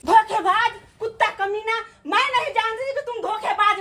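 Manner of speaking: furious insult. Acted. Calling out the cheater.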